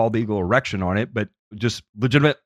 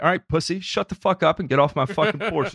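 raised pitch, lightly acted irritation; mock hostile homeowner; 6 semitones higher than usual. Homeowner chasing a salesman off the porch, mock hostile. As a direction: cut the salesman down, mildly hammed-up.

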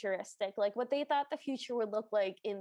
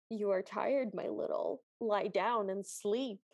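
soothing lion; 4 semitones lower than usual. Acted. Lion tells the tired girl to rest, soothing. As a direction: lull her toward sleep in a lower, unhurried voice. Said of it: "And the lion goes".

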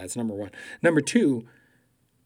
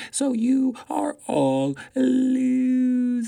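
mock loser taunt; slower than usual. Mocking Trump-style taunt.

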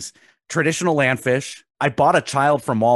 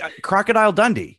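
excited guess; 8 semitones higher, faster than usual. Real, not acted.

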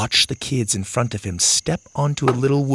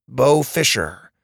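put-on shy boy voice; 2 semitones higher than usual. Bo gives his name.

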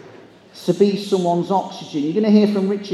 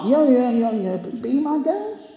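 sarcastic; 5 semitones higher than usual. Retold or imitated. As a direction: shrug it off with mock confidence. Sarcastic reply to security guard.

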